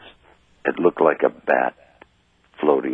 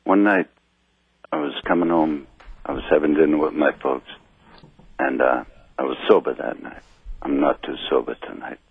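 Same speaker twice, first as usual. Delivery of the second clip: tipsy. Real, not acted. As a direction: talk like you've had a few. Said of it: "I'm a little bit inebriated".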